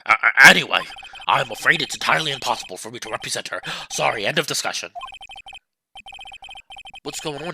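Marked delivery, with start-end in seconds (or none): 1.3-4.9 lower, self-important senior lawyer; pompous old lawyer. Acted. Old lawyer sizing up the young visitor, lower and pompous. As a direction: look down on the young man.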